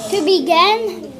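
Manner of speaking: quick and snappy; fast. Shown as a demonstration. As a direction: rattle it off quickly. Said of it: "Say it fast".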